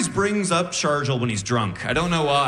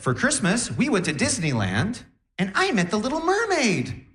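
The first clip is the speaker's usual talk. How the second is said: put-on high, sing-song little girl bragging; lightly voiced rich schoolgirl; 6 semitones higher than usual. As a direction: chirp it like a proud spoiled kid.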